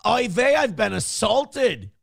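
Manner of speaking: high, whiny Jewish victim voice; yiddish accent. Retold or imitated. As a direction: play the wounded victim. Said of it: "you go".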